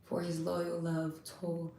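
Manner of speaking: quiet, reverent scripture recitation; soft psalm reading. Acted. Reading the psalm's praise to viewers, soft and reverent. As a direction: read it softly, letting it fade.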